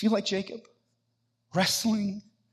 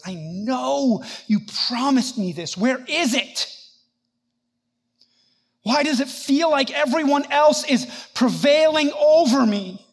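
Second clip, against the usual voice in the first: anguished complaint, building louder and higher; wrestling with God; 5 semitones higher, 3 dB louder than usual. Acted. Believer asks God where his promise is, wrestling, building in protest. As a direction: demand answers from an absent God. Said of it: "Do you ever wrestle like that".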